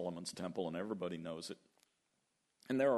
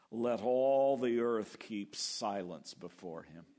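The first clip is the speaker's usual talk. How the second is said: solemn reading; 3 dB louder than usual. Real, not acted.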